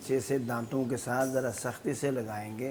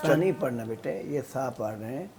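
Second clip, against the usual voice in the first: quick correction; faster than usual. Real, not acted. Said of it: "teacher corrects quickly".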